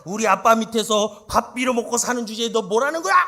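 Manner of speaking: loud, brash tirade, laughing at the end; mock fierce scolding. An imagined fierce Leah scolding Jacob, loud mock tirade. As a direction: hurl abuse like a fierce market woman. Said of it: "중국 여인이었으면".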